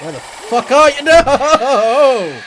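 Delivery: loud, high furious shout; angry yell. Real, not acted. Gamer yelling at a hidden enemy, loud and furious. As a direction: bellow at the enemy who vanished.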